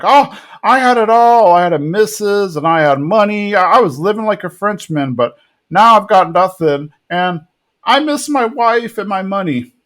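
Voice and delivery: a hint of a self-pitying husband; whiny lament. Buck laments losing everything.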